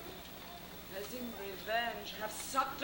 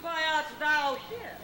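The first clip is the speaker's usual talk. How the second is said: hammy stage actor; 4 semitones higher than usual. Acted. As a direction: overblown theatrical Titania. Hammy Titania speech.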